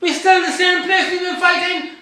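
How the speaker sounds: rising to an angry shout; impassioned shout. Real, not acted. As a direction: cry it out in real frustration. Impassioned point about black struggle.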